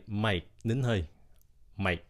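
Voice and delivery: Mike with the k held back; held breath. Shown as a demonstration. Teacher shows the held k in Mike. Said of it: "Mà nín hơi lại".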